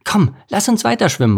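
high, eager call; bright-eyed urging, pitched high. A narrator's reading. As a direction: call your friend onward. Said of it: "rief Lars".

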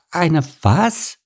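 high, incredulous question; taken aback. Acted. Ants hear about the moated castle, taken aback. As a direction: ants in high-pitched bafflement. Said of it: "stammelten die Ameisen".

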